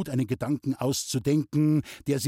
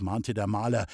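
ordinary delivery, nothing marked

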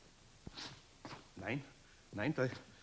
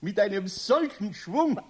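lachend; 9 semitones higher than usual. Acted. Eder lacht über runtergefallene Schachtel.

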